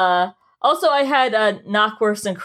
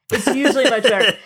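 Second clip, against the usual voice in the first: more insistent repeat; 4 semitones higher, 4 dB louder, faster than usual. Retold or imitated. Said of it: "I'll be like".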